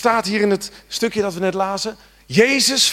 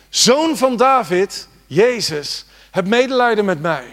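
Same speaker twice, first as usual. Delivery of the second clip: slow, high, loud cry for mercy; 5 semitones higher, 4 dB louder than usual. Acted. Blind man shouting over the crowd to Jesus, loud slow cry. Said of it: "begon hij te schreeuwen".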